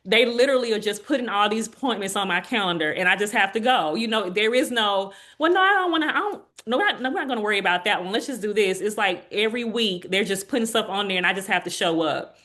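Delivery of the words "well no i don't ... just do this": high, quick mock doctor brushing her off; imitating the doctors. Patient mimicking her doctors dismissing her wishes, mock. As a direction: voice the doctors overruling her, higher and rushed.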